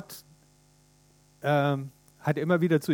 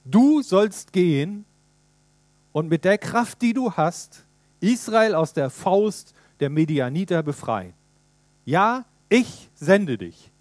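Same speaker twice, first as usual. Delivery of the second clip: slow, louder, weighty commission; solemn divine command; 5 dB louder, slower than usual. Acted. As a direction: pronounce it like God sending his man. God commissions Gideon. (Gott sendet Gideon, langsam und feierlich laut)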